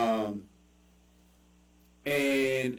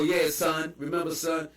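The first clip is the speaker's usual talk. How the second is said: mock slang greeting; 3 semitones higher than usual. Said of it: "it was people that used to go".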